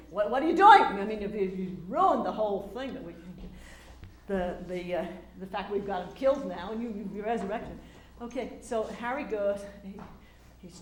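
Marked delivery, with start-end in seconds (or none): 0.1-7.8 angry outburst. Retold or imitated. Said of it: "you caused, changed the whole thing".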